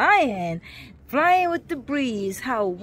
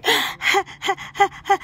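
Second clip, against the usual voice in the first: laughing; 7 semitones higher than usual. Real, not acted. Laughing in birthday wish.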